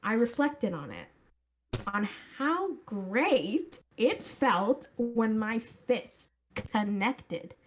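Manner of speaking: put-on Valley girl accent. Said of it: "The Valley Girl accent makes it so much better".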